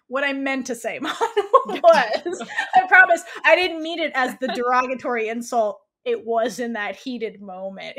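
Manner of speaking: giggling mock apology; imitating her, laughing through each phrase; laughing through a quote. Podcaster mocks Sam's backpedaling apology to Mon, laughing.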